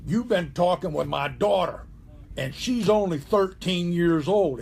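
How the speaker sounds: lightly voiced stern father; mock deep voice. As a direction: imitate a father confronting his daughter's caller, a bit firmer. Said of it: "in a real deep voice".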